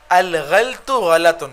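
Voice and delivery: غلط drawn out slowly, each sound of غلط said clearly; teacher sounding out غلط slowly so the class hears it right; careful pronunciation. Shown as a demonstration. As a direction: spell out الغلط غلط slowly for students. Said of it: "اصل لفظ ہے غلط".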